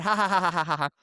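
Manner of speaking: spelt-out mock ha-ha-ha; imitated laughter. Haircutters laughing about it afterwards, imitated laughter. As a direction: act out their laughing, ha by ha. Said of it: "they're laughing about it".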